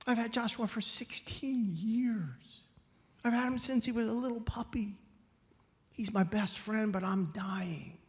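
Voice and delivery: lightly acted grieving old man; collecting himself after tears. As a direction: plead tenderly, drawing out the painful words. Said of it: "when he could finally collect himself".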